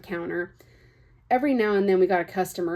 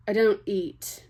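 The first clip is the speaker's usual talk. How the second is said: attempted Irish accent; slower than usual. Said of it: "that was too British".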